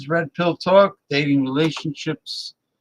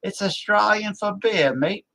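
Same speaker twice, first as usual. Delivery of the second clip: put-on higher Australian accent, slogan read; a mock Australian ad tagline; Australian beer-ad voice; 7 semitones higher than usual. Streamer quotes the original Foster's beer ad line in a mock Australian accent. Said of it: "the old Foster's beer commercial".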